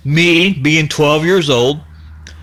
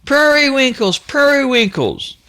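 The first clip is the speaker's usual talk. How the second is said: calling the dog; 10 semitones higher than usual. Retold or imitated. Boy calling his missing dog once more, high call. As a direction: call out again across the fields.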